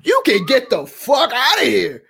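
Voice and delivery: high-pitched outraged send-off; worked-up telling-off; indignant dismissal. Acted. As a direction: throw them out, outraged. Ranting at a TV character.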